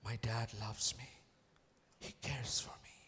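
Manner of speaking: low, hushed, slow; soft confession. Acted. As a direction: say it gently to yourself. Soft confession before loud repeat.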